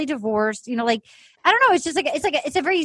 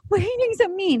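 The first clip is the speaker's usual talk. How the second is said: slightly tearful, higher imitation; mock whiny complaint; 5 semitones higher, faster than usual. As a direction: lift it into a put-on hurt whine. Imitating the weepy woman's complaint.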